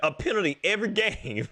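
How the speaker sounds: high, laughing through the words; can't hold the laugh in. Real, not acted. Cracks up at penalties.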